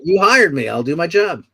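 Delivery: mildly grudging, just doing the job; resigned compliance. Retold or imitated. Actor to director, giving in with mild grudge. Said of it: "it's like, you know".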